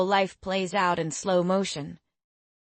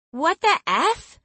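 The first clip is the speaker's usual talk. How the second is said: much higher, loud, slow shocked shout; 10 semitones higher, 6 dB louder, slower than usual. A narrator's reading. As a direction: yell it in alarm. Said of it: "she shouted".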